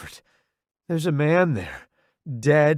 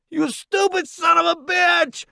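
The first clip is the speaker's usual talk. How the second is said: high loud furious shout; angry yell; 3 dB louder than usual. Acted. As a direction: curse him while tackling. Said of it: "Roddy yells".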